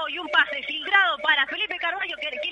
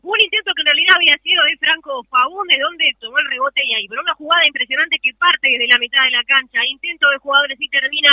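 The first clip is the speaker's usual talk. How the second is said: loud goal recap; 10 dB louder than usual. Real, not acted. Co-commentator shouts recap.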